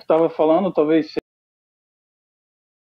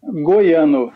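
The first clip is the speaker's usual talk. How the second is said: Brazilian Portuguese model; 2 semitones lower than usual. Shown as a demonstration. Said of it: "you say it".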